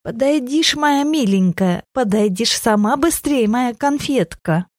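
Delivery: put-on sly old witch coaxing sweetly; fawning old crone. A narrator's reading. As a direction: lure the girl in with sugary complaints. Witch-granny coaxes the girl closer.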